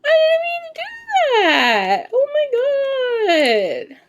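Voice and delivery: high, slow, crying cry of regret; anguished wail. Real, not acted. Streamer accidentally harms a bird, crying out in high anguish. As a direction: wail out the mistake.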